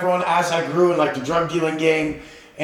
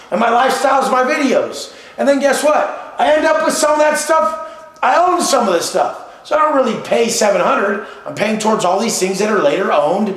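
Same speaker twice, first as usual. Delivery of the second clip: louder, higher, fired-up argument; heated; 5 semitones higher, 3 dB louder than usual. Real, not acted. Arguing his lifestyle spending to the host, fired up. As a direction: push the point harder and harder.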